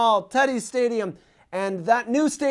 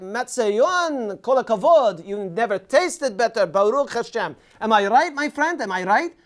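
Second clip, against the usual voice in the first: pushy falafel seller; 2 semitones higher than usual. Retold or imitated. Falafel vendor calling a passing tourist over, lightly voiced hawker. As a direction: hawk it like a seller pulling in a tourist. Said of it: "They will shout with passion".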